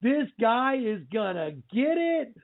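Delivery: mildly re-enacted freak-out with drawn-out words. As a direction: replay your amazed reaction to the film, stretching the "oh"s. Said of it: "just freaking out, going".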